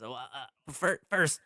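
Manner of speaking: lightly voiced dopey shopkeeper; dopey cartoon bellow. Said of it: "he says".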